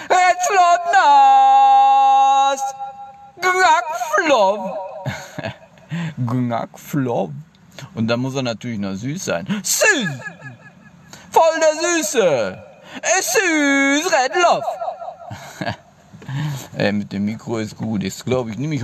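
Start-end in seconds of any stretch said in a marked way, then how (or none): 0.1-4.8 high squeaky cartoon voice; squeaky falsetto. Streamer reads names in funny voice. 9.6-14.6 high gushing falsetto; squeaky cute voice. Pretend. Gushing over cute name.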